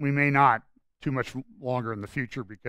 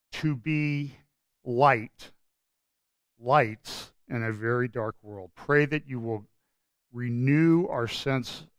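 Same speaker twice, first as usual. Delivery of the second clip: closing prayer; slower than usual. Real, not acted. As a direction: pray sincerely over the congregation, slowing down. Pastor closes with a prayer.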